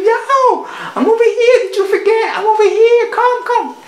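high, loud, laughing cartoon van; voiced van. Van calling its owner across the lot, high and loud. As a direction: call out like a car waiting for its owner. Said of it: "She goes".

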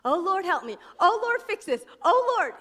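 hammed-up nine one one prayer; mock panicked prayer. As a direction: mimic a desperate quick plea to God. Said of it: "nine one one prayers".

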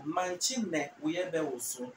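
careful slow teaching take of Manchi ne uyebe woso. Shown as a demonstration. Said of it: "you're saying it slow".

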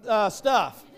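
put-on loud, high kid's exclamation; child's alarm. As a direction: blurt it out as a shocked boy. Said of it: "I'm like".

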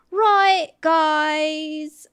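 high, drawn-out put-on voice. Attempting a friend's catchphrase, high-pitched impression. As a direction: pitch it way up and hold each word. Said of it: "Can I do a good L J impression?".

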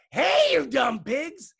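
high, drawn-out holler; yelled. A narrator's reading. Megan yells at pigs through the school door, high holler. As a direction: yell it loud and high, stretching the words. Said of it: "all the way and yelled".

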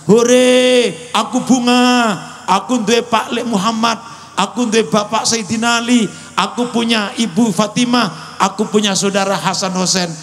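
put-on high-pitched cheering like a delighted child; overjoyed child imitation. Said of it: "yatim ini seneng". (menirukan anak kegirangan, bersorak bernada tinggi)

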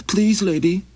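high, pleading little traveler; high begging wanderer voice; Maxie voice. Acted. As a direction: raise the pitch and ask humbly.

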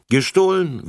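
high, loud, firmly confirming the word; firm repetition. A narrator's reading. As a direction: repeat it back with finality. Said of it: "wiederholte Frau Rasselbusch".

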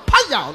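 mock slap sound. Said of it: "too, sounded".

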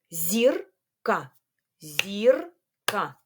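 ЗІРКА split into зір... ка; syllable by syllable. Shown as a demonstration. Teacher counting syllables with pupils, syllable by syllable. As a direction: say ЗІРКА in two parts with a clear gap. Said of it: "на склади".

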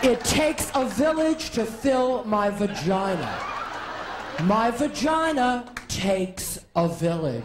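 mock political oration; Hillary Clinton. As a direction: preach it like a stump speech. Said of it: "Hillary's gotta do it".

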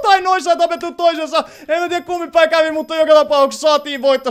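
high, loud, still elated; thrilled victory report. Real, not acted. Player reporting a win to viewers, thrilled.

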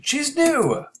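a big excited scream of "She's new!"; screamed exclamation. Shown as a demonstration. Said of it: "he screamed".

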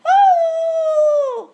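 very high, long, loud ghostly shriek; horrifying shriek. A narrator's reading. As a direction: shriek to make skin crawl. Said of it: "gave a horrifying shriek".

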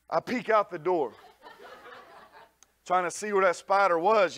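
ordinary talk

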